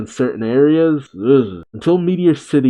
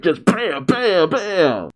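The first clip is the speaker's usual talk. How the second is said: imitated blows; 5 semitones higher, slower than usual.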